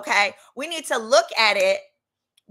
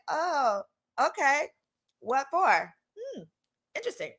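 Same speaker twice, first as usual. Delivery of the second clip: suspicious; 4 semitones higher, 4 dB quieter than usual. Retold or imitated. Her wary reply to the guys.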